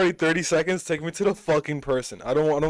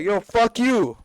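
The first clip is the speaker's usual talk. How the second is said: higher, louder retold outburst; mock tweaking out; 7 semitones higher, 5 dB louder, slower than usual. Fed-up person cursing a scam caller, mock outburst. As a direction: blow up at a scam caller, half in play. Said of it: "you're gonna tweak out".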